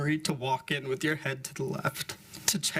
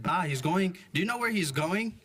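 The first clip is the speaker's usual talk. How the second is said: higher, urgent mom asking; worried mom voice; 6 semitones higher than usual. Retold or imitated. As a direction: warn grandma pointedly.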